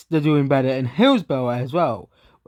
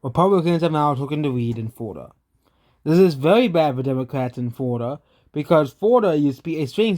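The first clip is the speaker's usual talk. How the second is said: with a mouth ulcer. Real, not acted. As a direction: mouth sore, words a bit careful. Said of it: "it's harder to talk 'cause of the".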